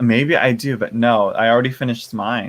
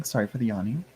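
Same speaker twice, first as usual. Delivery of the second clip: softer mumbled repeat of Sorry; quieter repeat; 7 dB quieter, faster than usual. Real, not acted. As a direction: repeat it under your breath.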